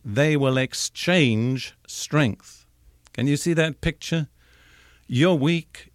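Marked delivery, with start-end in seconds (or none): 0.1-2.7 slow, deliberate phrasing; literal Hebrew rendering. Shown as a demonstration. Preacher giving the literal Hebrew meaning, slowed and deliberate. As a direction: lay out each word slowly. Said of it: "The Hebrew says literally".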